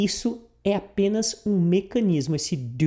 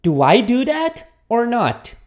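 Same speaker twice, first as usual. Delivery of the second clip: slow, louder question with a pause before the tag; example question; 4 semitones higher, 4 dB louder, slower than usual. Shown as a demonstration. Employee unsure of the boss's order asks, slowly. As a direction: ask it slowly and pointedly. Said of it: "Você pergunta".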